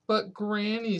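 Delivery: put-on high, small child's plea; a little boy protesting to granny; small boy pleading. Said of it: "said Patrick".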